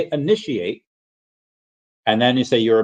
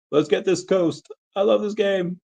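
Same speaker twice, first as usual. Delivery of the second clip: hyped chat read; 10 semitones higher than usual. Acted. Reading an excited chat message.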